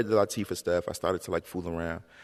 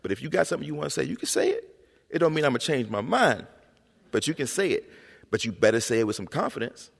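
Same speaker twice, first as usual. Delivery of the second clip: higher-pitched parent laying down house rules; firm parent; 7 semitones higher than usual. Retold or imitated. Parent to child about talking back, firm. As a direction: imitate a parent allowing back talk, with limits. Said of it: "brought up in a household where it was like".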